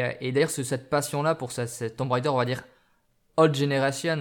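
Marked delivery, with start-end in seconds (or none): 3.4-4.2 English words in a thick French accent. Real, not acted. Podcaster joking about his super English accent, French-accented English. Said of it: "avec mon super accent anglais".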